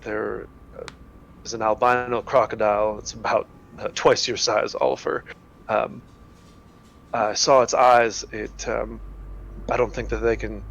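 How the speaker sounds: slightly hushed, hesitant in-character report; quietly brief the party on a danger; careful, halting, understated warning; wary scout reporting. Acted.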